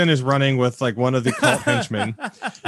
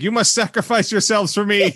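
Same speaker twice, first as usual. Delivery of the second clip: villain order; 7 semitones higher than usual. Retold or imitated. Villain ordering henchmen to die.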